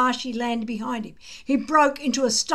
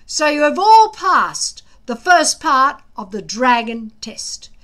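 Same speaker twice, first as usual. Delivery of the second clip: gruff lecture; 3 semitones higher, 8 dB louder than usual. A narrator's reading. Gobber lecturing the boys.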